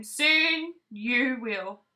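slow, calm promise; slow reassuring. Acted. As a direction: draw it out kindly. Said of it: "said Lamb".

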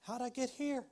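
bewildered lost sheep. Retold or imitated. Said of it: "It's talking about".

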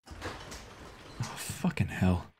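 hushed, barely voiced curse; whispered swear. Real, not acted. Hiding player cursing softly, whispered. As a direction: mutter it under your breath in fear.

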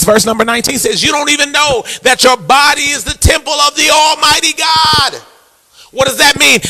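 high, ringing sermon delivery; emphatic preacher driving the point home; preaching. Real, not acted. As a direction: preach it out with rising fervour. Preaches at rising force.

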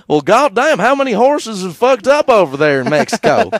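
high, loud hammed-up amazement; mock astonishment. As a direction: holler it in comic disbelief. Imagined astonished horse medicine seller.

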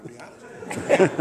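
slow, loud laugh-talk. Real, not acted. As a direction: crack up as you admit it. Laughing at his own escape.

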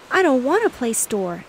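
mildly loud exclamation; exclaiming. Acted. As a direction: brush off the game, worked up. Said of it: "exclaimed Sue".

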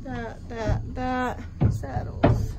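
panting between words; breathless from rushing around; out of breath. Real, not acted. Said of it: "Sorry, I'm out of breath".

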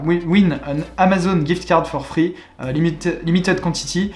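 English with a French accent; halting English, French accent. Real, not acted. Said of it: "voilà mon super accent".

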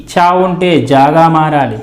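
ordinary talk

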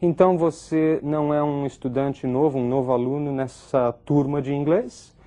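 "Então você não é" pitched high, ending as a question; doubtful question tone. Acted. Teacher translating the student's question about the class, in doubt. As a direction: keep it high and lift "inglês" into a question. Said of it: "um tom de dúvida que ela dá".

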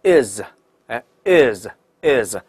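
"is" said as "iz", with a voiced buzzing ending; 浊音词尾is. Shown as a demonstration. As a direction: draw out "is" slowly as a model "iz" syllable. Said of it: "记住一定要读成". ("is"读成浊音结尾的"iz")

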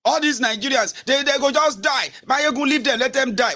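high-pitched imitation of a dismissive follower; mock fed-up follower. Follower urging Mayegun to abandon Nigerians, mock exasperated. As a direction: mimic someone giving up on people.

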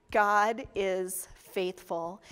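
slow every word of God is faithful down to a hush; slow, low solemn refrain. Shown as a demonstration. Preacher drawing out God is faithful to his congregation, slow and low. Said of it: "God's faithfulness is rock solid".

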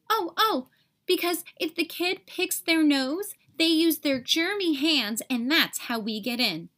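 excited little germ pupil; eager germ student. Acted. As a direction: hand up, bursting to answer. Germ student eagerly answering teacher.

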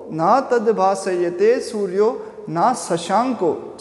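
slow, drawn-out Sanskrit recitation; measured verse recitation. Real, not acted. Teacher revisits the Gita verse to explain it, slow recitation. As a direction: recite it slowly, lingering on long syllables.

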